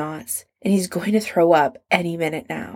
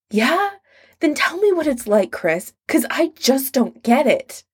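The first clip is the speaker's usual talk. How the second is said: higher, wounded and demanding; hurt challenge; 7 semitones higher than usual. A narrator's reading. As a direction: throw the question back, stung. Hurt Adam confronts Chris.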